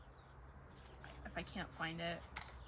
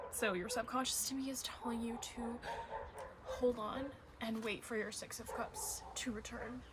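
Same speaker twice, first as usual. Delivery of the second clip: whispered reading. Acted. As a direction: lean in and whisper it gently. Whispers the card message.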